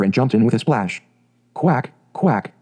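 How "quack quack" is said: mother duck calling her ducklings with a quack. Acted. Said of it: "cried she".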